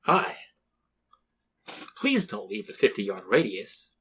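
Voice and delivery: slow, flat-toned bland American guard; lightly voiced, deliberately dull soldier; a hint of a bored Midwestern veteran, slowed down; bland Middle American. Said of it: "very bland, um, like, middle American one".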